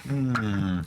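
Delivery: low rumbling growl. Retold or imitated. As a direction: growl like an angry wolf. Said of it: "I'll start growling".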